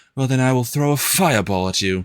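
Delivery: snooty, obnoxious, haughty high elf wizard voice. Showing the voice of his High Elf Wizard character, in a high elf wizard voice. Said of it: "I use that voice for".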